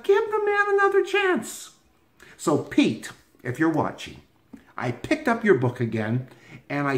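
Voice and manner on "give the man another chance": inner voice. Retold or imitated. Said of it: "And I thought".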